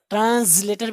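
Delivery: "ट्रांसलेटर" with too heavy a z; exaggerated tranzz-later for "ट्रांसलेटर"; overdone z sound. Shown as a demonstration. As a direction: buzz the z in "ट्रांसलेटर" as a mistake to avoid. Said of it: "बहुत हल्की सी आप जा की आवाज़".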